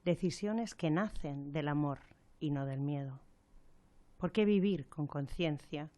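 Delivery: measured poetic reading with long pauses; reflective recitation. Acted. Radio presenter opens a programme on end-of-life decisions, reflective recitation. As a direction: recite it gently, line by line, letting each phrase rest.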